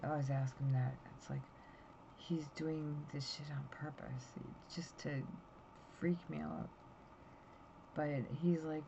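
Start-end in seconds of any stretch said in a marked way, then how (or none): 2.2-6.7 whispered. Real, not acted. Complaint aside about husband.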